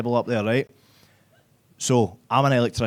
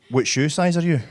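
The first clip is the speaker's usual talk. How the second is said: repeated for the audience; 3 semitones higher than usual. Retold or imitated. Comic repeating girlfriend's text for the audience, more pointed. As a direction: say it again more pointedly for them. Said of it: "I'll do it again for your benefit".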